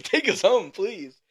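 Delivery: high, insistent plea; pleading. Retold or imitated. Storyteller begs the driver for a ride home, high pleading. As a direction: beg urgently, pitch jumping up.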